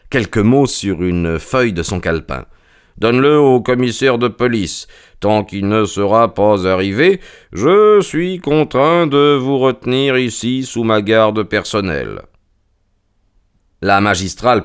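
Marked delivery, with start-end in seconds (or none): 3.0-12.2 voix posée et plus aiguë de détective; Holmes autoritaire. Acted. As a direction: annoncer fermement qu'on les retient. Holmes prend la situation en main. (détective maître de la situation)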